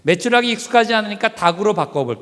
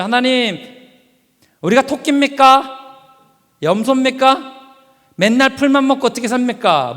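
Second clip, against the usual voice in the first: complaining Israelites; 4 semitones higher than usual. Acted. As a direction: grumble like tired of grass.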